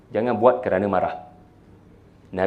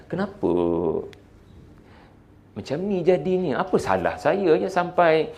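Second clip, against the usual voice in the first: puzzled self-questioning; 2 semitones higher, 4 dB quieter than usual. Acted. Husband voiced wondering what went wrong.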